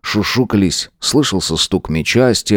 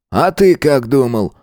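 lightly voiced teacher, a touch higher; teacher Roman; 6 semitones higher than usual. A narrator's reading. Teacher introducing the new caretaker, mildly scolding. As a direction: introduce the newcomer, then shoo the kid.

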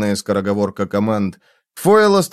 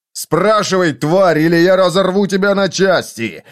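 raised, higher-pitched angry demand; seething threat; 6 semitones higher than usual. A narrator's reading. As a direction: threaten the child, boiling with anger. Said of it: "Фойл кипел".

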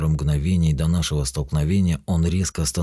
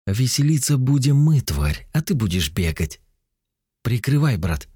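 defiant shout; 8 semitones higher than usual. Acted. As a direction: shout it as a war cry. Hero defies demon in battle.

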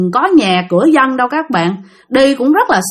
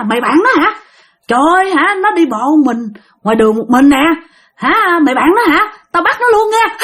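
acted other voice calling out, rising higher; mock loud questioning; 4 semitones higher than usual. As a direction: call out in mock taunting, building in pitch. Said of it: "nghe nói rất là lớn". (nhại giọng hỏi lớn, cao dần)

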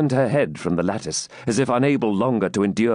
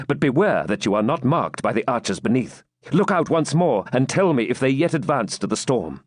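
urgent, lively character reading; a touch of restless urgency; lightly voiced wounded knight; 4 semitones higher than usual. Wounded knight sends maiden to the window, urgent.

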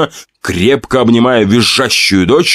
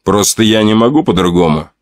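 calm. Acted. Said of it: "спокойно сказал Артур Птица".

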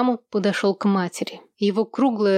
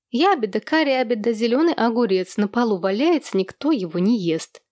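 preachy teasing rhyme; 2 semitones higher than usual. Acted. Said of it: "назидательно изрекла Хейзел".

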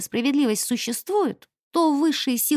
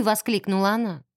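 ordinary delivery

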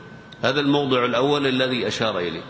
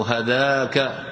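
slow demo form; much slower than usual. Shown as a demonstration. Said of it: "فتقول".

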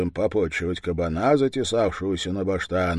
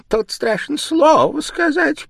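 much higher, louder squeak; squeaking beak; 7 dB louder than usual. Acted. The bird's nose mocks grandpa, squeaking. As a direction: squeak the words like a tiny beak. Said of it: "пискнул птичий нос".

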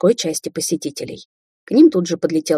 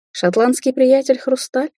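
surprised; 8 semitones higher, slower than usual. A narrator's reading. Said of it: "удивлённо отозвалась женщина".

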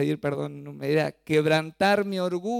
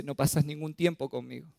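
imitating crying child; 5 semitones higher, 6 dB louder than usual. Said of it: "pero llorando me dice".

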